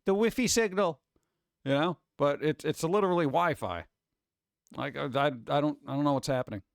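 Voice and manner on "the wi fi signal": mock-cutesy whine, a little higher; lightly hammed-up cuteness. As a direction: put on a playful cutesy voice. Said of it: "like, cutesy".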